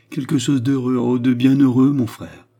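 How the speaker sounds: bubbling over with happy news; André overjoyed, telling her brother; joyful. A narrator's reading. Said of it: "d'un air joyeux".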